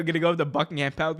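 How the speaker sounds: ordinary delivery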